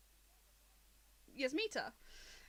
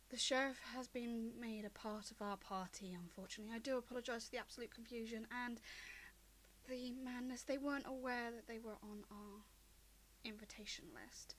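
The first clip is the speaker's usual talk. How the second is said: wavering cleric; 8 dB quieter than usual. Acted. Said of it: "the short cleric kind of wavers a moment".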